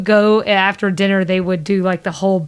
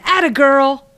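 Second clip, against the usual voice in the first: mock yell of encouragement, higher and louder; hooting applause, lightly imitated; retold cheer; 6 semitones higher, 5 dB louder than usual. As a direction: cheer her on like a proud fan, half-shouted. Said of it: "clap so hard for her screaming".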